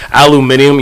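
"aluminium" with the British extra syllable, al-yoo-MIN-ee-um; British pronunciation. Retold or imitated. American teasing Brits for doing the most, British-style "aluminium". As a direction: mimic the British saying "aluminium". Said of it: "y'all say it like that".

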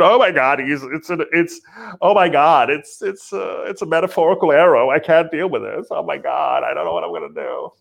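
hammed-up fretting, lurching high and back down; half-serious overwhelmed fluster; mock panic. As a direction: act like flustered people freaking out. Mock panicked crowd reacting to arrows.

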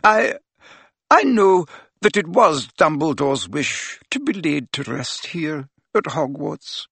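a brisk voice that wavers; shaking voice. A narrator's reading. Professor speaking of Dumbledore's burial, voice shaking. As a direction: lose composure mid-sentence. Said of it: "her voice shook".

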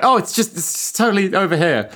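high, breezy fake reassurance; robot spider lure. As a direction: coax them along sweetly. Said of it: "is like".

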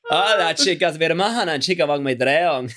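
hammed-up Cuban catwalk trainer; Jorge González impression. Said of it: "Der Jorge González".

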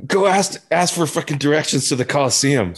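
squeaky mocking of a bandmate; imitating Jody. Bandmate mocked, ordering him to ask for directions, high and pushy. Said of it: "And Jody's like".

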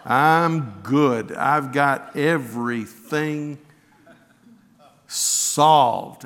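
mock carefree, with a laugh; breezy, laughing "I'm good" dismissal; glib brush-off. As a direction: shrug it off like nothing's wrong. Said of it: "I'd have said".

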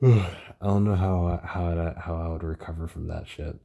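halting, stuttering speech. Real, not acted. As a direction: trip over the words. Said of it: "I know I'm stuttering a lot".

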